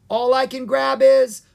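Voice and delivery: high, loud and left hanging; yelled. A narrator's reading. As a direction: shout it, breaking off unfinished. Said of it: "Owen yelled".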